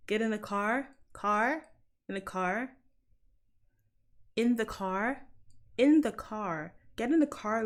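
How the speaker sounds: tentative American accent, testing each phrase; attempted American accent. Shown as a demonstration. Londoner rehearsing a movie line, attempted American accent. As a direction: practise the American R in "car". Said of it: "I can't do an American accent".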